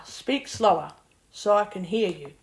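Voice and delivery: ordinary talk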